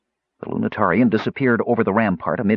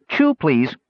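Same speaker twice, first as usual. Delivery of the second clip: gnome voice; 7 semitones higher than usual. A narrator's reading. Gnome speaks.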